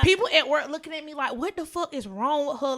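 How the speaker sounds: telling the podcast how coworkers stared, laughing and loud; excited retelling. Retold or imitated.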